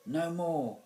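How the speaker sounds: high, loud prompt. A narrator's reading. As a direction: call out the forgotten words to the actor. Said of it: "Mister Lace prompted".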